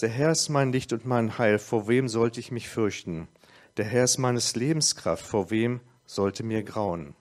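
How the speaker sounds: measured scripture recital, slowing at the end; psalm reading. Acted. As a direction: declaim the verses with a slow close. Reads Psalm 27 aloud.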